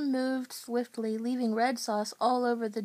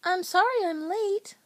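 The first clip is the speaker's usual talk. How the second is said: higher Southern apology; soft Southern accent; 8 semitones higher, 3 dB louder than usual. A narrator's reading. Becky apologizing for lateness, soft Southern accent. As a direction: apologize in a sweet Southern lilt. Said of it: "apologized in her soft Southern accent".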